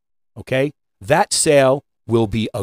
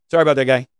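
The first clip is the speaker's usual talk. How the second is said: "Sorry about that guy" tossed off carelessly; mock offhand apology; much faster than usual. Shown as a demonstration. Coach mocking a careless clerk, offhand mock apology. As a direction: shrug the words off.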